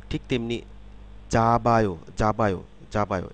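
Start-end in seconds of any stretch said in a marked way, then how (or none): 1.3-3.2 জাবায় with b flowing into the vowel; জাবায়, no stop before the vowel; linked voiced ending. Shown as a demonstration. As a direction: say জাবায় as one word, voiced b. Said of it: "এরকম হবে".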